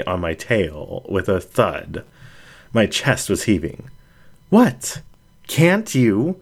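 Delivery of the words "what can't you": high, loud, shocked cry. Acted. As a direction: blurt it out in shock. Shocked by failed spell.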